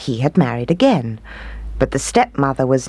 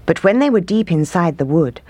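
ordinary delivery, nothing marked

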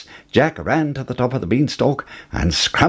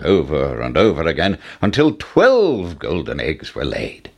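usual speaking voice

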